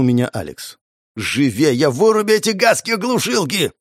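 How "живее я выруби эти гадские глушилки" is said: high-pitched, urgent wail; wailing yell. A narrator's reading. Wounded pyromancer demanding jammers be switched off, wailing. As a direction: cry out to get the jammers off. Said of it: "завопил пиромант".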